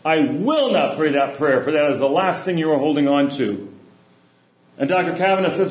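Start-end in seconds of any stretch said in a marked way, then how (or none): 0.0-3.7 mildly stern retold refusal; firm, measured refusal with a touch of sternness. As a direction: voice a stern elder, understated. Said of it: "Mother Teresa very sternly looks".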